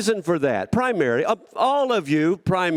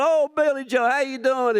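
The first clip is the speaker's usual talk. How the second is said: put-on baby talk; 9 semitones higher than usual. Talking to the baby.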